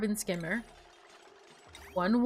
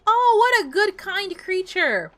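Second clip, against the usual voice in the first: cooing at a critter; 9 semitones higher, 5 dB louder than usual. Real, not acted. Streamer coos at a critter planting seeds, high doting voice. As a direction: melt over a sweet little animal.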